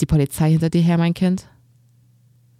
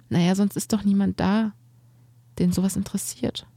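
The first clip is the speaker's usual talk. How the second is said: put-on boy admitting his secret, slightly higher; lightly voiced shy boy; 3 semitones higher than usual. Narrator voices shy boy Bastian.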